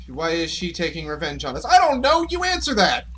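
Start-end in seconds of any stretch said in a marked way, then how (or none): 1.6-3.0 frantic yell. Real, not acted. Gamer shouting back at the spooky question, frantic. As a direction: throw it back at the game, exasperated. Yelling at game in fright.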